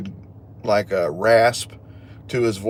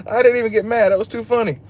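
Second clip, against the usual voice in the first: much higher, laughing through the words; 12 semitones higher than usual. Real, not acted. Telling the stream about his family's joke, laughing. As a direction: giggle as you say it.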